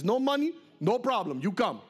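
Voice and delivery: put-on breezy offer in a Malian accent; easygoing Malian man, imitated; imitated West African English. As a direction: wave it away in simple West African English. Retold local man's cheerful offer.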